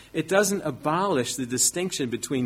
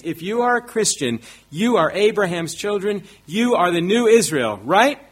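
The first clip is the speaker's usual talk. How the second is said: higher, louder mock-preacher oratory building to a peak; loud, charismatic preaching; 3 semitones higher, 4 dB louder than usual. Preacher feigning a false argument to congregation, loud and charismatic. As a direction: drive it home with persuasive pulpit fervor, rising to a loud "right?". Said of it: "If I was loud enough and charismatic enough".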